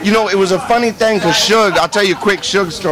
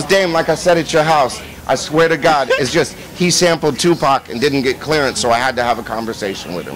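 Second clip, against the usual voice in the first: lowered Suge explaining; 5 semitones lower than usual. Retold or imitated. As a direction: talk it down low and calm. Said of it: "He goes".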